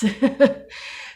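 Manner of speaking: short, high burst of laughter; uneasy laugh. Real, not acted. Vlogger faltering before explaining the bill, nervous laugh. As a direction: break off into a quick laugh.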